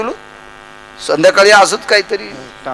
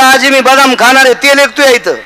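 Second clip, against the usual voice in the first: mock wrestler; 7 semitones higher, 3 dB louder than usual. Pahilwan asking grandmother.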